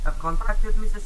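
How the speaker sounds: accidental crack while reading aloud. Real, not acted. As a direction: voice cracking mid-line. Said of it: "Why did I get a voice crack?".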